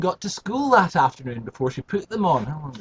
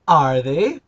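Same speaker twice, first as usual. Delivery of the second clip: surprised Frida; 4 semitones lower, 5 dB louder than usual. Acted. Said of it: "said Frida in surprise".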